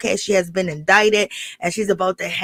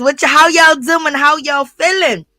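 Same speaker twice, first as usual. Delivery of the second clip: hype greeting; 5 semitones higher, 5 dB louder than usual. Real, not acted. Greeting live chat viewers.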